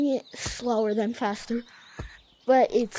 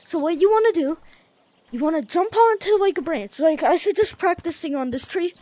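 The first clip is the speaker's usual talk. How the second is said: breathless, panting between phrases; winded, catching breath while talking; 3 semitones higher than usual. Real, not acted. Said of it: "I'm out of breath".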